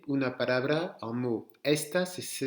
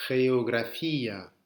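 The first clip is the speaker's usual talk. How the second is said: slow model; 4 dB louder, slower than usual. Shown as a demonstration. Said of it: "Allez-y pour celui-là".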